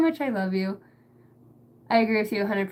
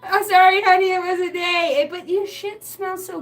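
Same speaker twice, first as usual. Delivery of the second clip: mock apology; 6 semitones higher, 5 dB louder than usual. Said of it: "it's like".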